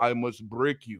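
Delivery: very deep voice, dropped way down. Imitating a fighter's trash talk before the fight: deep Drago voice. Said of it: "coming through with her Drago lingo".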